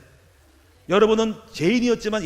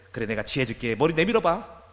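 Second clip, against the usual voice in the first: God's answer; 4 semitones lower than usual. Retold or imitated. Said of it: "아버지가 그러더라고요".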